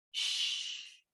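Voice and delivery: soft whispered shh; hushing. Acted. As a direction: hush them like a secret. Hushing listeners mid story.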